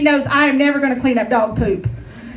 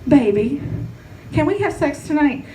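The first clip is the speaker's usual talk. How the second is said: smooth-talking husband; 3 dB quieter than usual. Retold or imitated. Comic wife mimicking her husband, lightly smooth. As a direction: slide into it like a smooth talker. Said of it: "all smooth".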